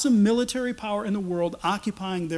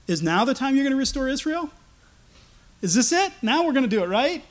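higher-pitched eager asking; eager questioning; 5 semitones higher, 3 dB louder than usual. Retold or imitated. Apostles pressing Jesus about restoring Israel, eagerly questioning. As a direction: ask with keen expectation, voice lifted.

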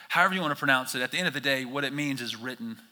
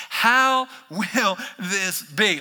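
stunned question; 5 semitones higher, 5 dB louder, much slower than usual. Retold or imitated. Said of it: "Look at her response".

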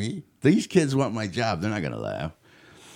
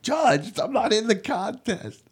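much higher, slowed disbelieving protest; indignant disbelief; 10 semitones higher, slower than usual. Retold or imitated. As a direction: squeak out the objection in disbelief. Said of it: "I'm like".

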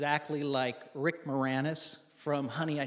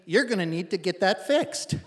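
louder, imitated Canadian accent; 3 semitones higher, 5 dB louder than usual. Canadian helper advises the stranded driver, imitated Canadian accent. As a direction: play the observant Canadian, accent put on. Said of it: "the strongest Canadian accent".

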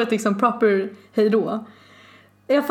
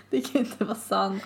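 softer, under the breath; softer muttered can't be true; quiet disbelief; 7 dB quieter than usual. Shown as a demonstration. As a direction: murmur it to yourself in disbelief. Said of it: "repeats the line quieter".

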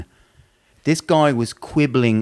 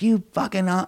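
mock loud outburst; 8 semitones higher than usual. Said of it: "and then you get all loud".

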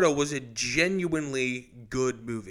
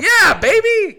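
much higher and louder, a gleeful cheer; excited whoop; 10 dB louder, slower than usual. Real, not acted. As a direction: whoop it like a fan whose team just scored. Hockey fan hears Russian Five.

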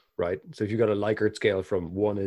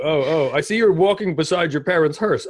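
mock sympathetic asker; 7 semitones higher, 9 dB louder than usual. Mock sympathetic question in skit.

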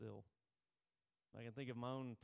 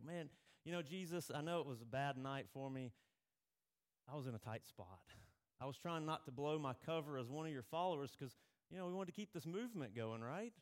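excuse-making. Retold or imitated. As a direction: talk your way out of it. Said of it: "He doesn't go".

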